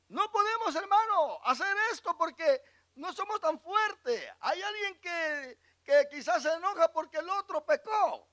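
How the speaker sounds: high, loud pulpit fervor; fiery preaching. Acted. Preacher rousing his congregation, fervent and high. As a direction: preach it to the flock with full force.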